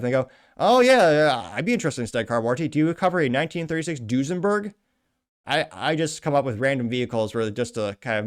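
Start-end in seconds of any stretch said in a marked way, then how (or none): 0.6-4.7 feigned eager interest. Acted. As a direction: play the keen customer to wind up a scammer. Feigns interest to scam caller.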